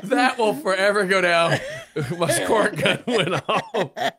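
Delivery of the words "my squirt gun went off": laughing through the words; barely getting it out laughing. Real, not acted. Laughing so hard she cries.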